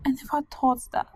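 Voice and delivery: grieving, on the edge of tears; tearful. Acted. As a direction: hold back tears through homesick grief. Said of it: "please don't cry".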